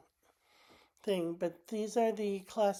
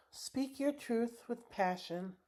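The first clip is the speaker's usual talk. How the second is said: slow reading of the card; 2 semitones higher, 6 dB quieter, slower than usual. Shown as a demonstration. Reading her tarot card aloud to viewers, slow and soft. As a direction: read each word out slowly and softly. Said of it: "And this says".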